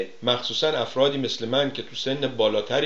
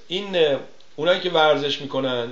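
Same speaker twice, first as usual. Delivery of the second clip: usual speaking voice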